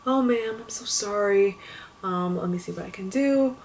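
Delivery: lightly imitated soothing apology; mildly acted, unruffled and apologetic; calm older gentleman. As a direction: retell a calm customer service man, softening as it goes. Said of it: "He was calm".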